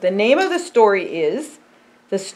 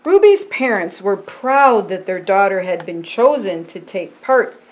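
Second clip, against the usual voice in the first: slow, earnest picture-book reading; storybook voice for a child. Acted. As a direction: tell it gently to a young listener.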